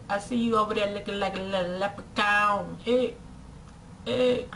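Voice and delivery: lightly imitated street holler; catcalling guy. Guy hollering at a woman across the way, mock catcall. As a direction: call out in short, repeated bursts like a catcaller. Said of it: "when guys try to holler at you".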